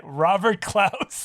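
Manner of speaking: stretched slow punchline; slow drawn-out name. Acted. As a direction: draw the name out slowly.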